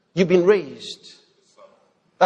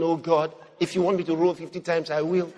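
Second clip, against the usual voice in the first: mock begging; 2 semitones lower, 6 dB quieter than usual. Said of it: "begging him and rolling".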